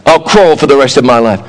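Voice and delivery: low, sulky quitting voice; lightly voiced child giving up; mock giving up child. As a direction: sulk like a toddler quitting. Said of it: "where you said".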